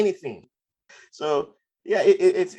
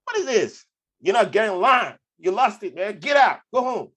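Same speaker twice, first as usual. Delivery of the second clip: high, loud incredulous yelling; a guard yelling someone out of the queue; mock outraged guard; 9 semitones higher, 3 dB louder than usual. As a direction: blast him like a fed-up guard. Retold angry guard confrontation.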